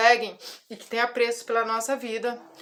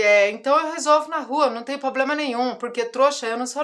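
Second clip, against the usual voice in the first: defiant retort; 2 semitones higher, 5 dB louder than usual. Retold or imitated. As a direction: throw back the challenge with heat. (desafio irritado e mais alto à diretora)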